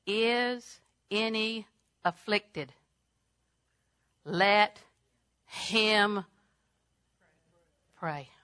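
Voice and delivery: word by word with long pauses; slow, deliberate recitation. Real, not acted. Preacher making a verse understood, slowly and deliberately. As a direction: space out each word, dropping on the last.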